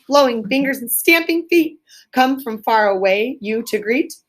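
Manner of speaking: a carol read as a poem, not sung; recited carol. Shown as a demonstration. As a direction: read the carol lines with a gentle rhythm. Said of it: "I'm not gonna sing this, but it's a song".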